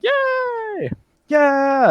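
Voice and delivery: high mock cheering crowd. GM voicing the crowd cheering the knife thrower. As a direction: cheer like a delighted audience.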